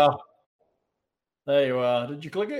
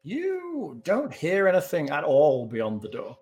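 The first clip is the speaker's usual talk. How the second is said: slow, measured scene setting; unhurried storyteller's delivery; game master narration; 3 semitones lower, slower than usual. Acted. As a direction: describe the stillness slowly, deliberately.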